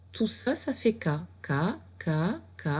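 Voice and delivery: K répété comme une leçon; insister sur le son. Shown as a demonstration. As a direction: marteler le K pour l'élève. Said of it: "répète le son K". (répéter le son K en martelant)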